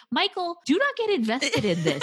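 pleading with Michael. Retold or imitated. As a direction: warn him like a worried fan. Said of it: "I'm thinking".

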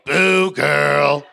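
a hint of a fake cheerleader; perky catchphrase. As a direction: sell the motto like a cheesy host. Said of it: "Can you say".

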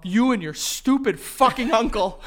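drawn-out mock tirade; mock anger. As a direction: chew out your wife, hammed up. Acted husband berating his wife.

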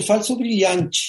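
title said in Brazilian Portuguese, the title's last word ending in "-chi"; Brazilian Portuguese accent. Shown as a demonstration. Naming a singer's show as Brazilians do, Brazilian accent. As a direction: Brazilian pronunciation of the title.

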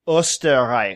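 Österreich with a rounded umlaut O and a German ch; Österreich, UH-ster-ryekh, as a question; German pronunciation. Shown as a demonstration. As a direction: say Österreich like an Austrian. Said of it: "trying not to butcher the pronunciation".

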